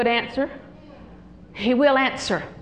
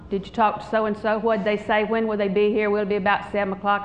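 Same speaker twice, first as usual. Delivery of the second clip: quick, businesslike questions, just after facts; matter-of-fact questions; 3 semitones lower than usual. Retold or imitated. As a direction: rattle off the questions to get information. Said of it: "Different tone of voice".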